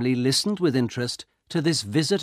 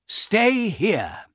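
high, emphatic warning; soldier's urgent cry; 11 semitones higher, 4 dB louder than usual. A narrator's reading. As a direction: call it out, high and firm. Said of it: "he cried".

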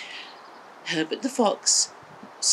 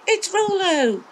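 high, loud burst of recognition; excited cry; 13 semitones higher, 4 dB louder, slower than usual. A narrator's reading. Maggie finally finding Rollo in the hole, excited cry. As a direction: gasp it out, she's found him. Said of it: "And Maggie said".

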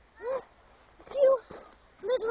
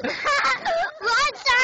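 calling out; 4 semitones higher, 6 dB louder than usual. Real, not acted. Calling out at the hill.

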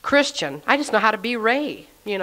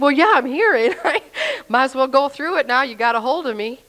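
amused giving in; 4 semitones higher than usual. Retold or imitated. Answering the pastor's offer, amused and resigned. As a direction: give in with a laughing shrug.

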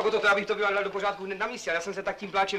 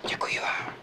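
whispered thanks; whispering; slower than usual. Acted. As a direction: thank her in a hush. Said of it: "Tak proč vlastně šeptáme?".

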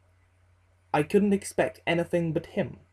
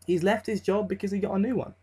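quick self-reassurance; 4 semitones higher, faster than usual. Retold or imitated. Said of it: "I kept telling myself".

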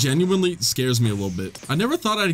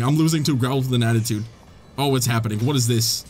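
dismayed; 4 semitones lower, faster than usual. Real, not acted. Admits he is losing.

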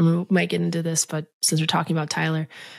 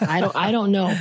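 laughing; 3 semitones higher than usual. Real, not acted. Shrugging off how she got sick.

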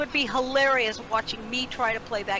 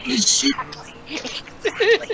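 drawn-out emphatic agreement; 3 semitones higher, 7 dB louder, much slower than usual. Real, not acted. Agreeing with the joke.

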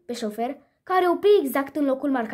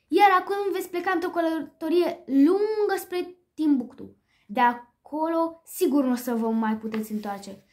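higher, gloating villain's taunt; mocking smirk; 4 semitones higher than usual. Butler taunting the cats in the trunk, mocking. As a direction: sneer at the trapped cats. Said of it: "cu un zâmbet bagiocoritor".

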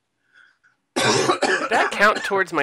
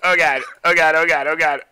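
terrified gibbering; 3 semitones higher, 7 dB louder than usual. Real, not acted. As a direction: gabble it in dread, calming down. Repeated panicking before match.

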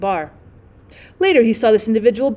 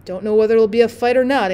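grim. Acted. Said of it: "answered one man grimly".

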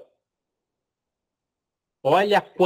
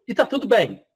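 higher, light reassurance on "tá"; reassuring; 6 semitones higher than usual. Shown as a demonstration. Teacher calming anxious students, higher reassuring tone. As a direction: lift "tá" gently to comfort the class.

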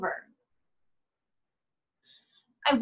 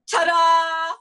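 loud, bright ta-da; showy reveal; 6 semitones higher, 7 dB louder than usual. Acted. Saleswoman unveils the magazine to the neighbor with a flourish. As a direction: present it like a magic trick.

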